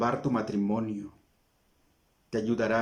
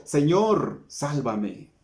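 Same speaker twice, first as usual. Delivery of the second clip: shout; 2 semitones higher, much slower than usual. Acted. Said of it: "Entonces gritó".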